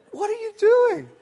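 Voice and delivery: high-pitched, loud incredulous cry; mock disbelief. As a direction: retell it as an aghast, squeaky protest. Retold shock at friend's chopping.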